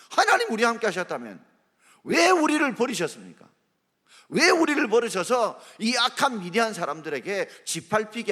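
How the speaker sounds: a desperate plea that eases off; Gideon's anguished plea. Acted. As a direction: cry out why he was abandoned. Preacher voices Gideon pleading with God.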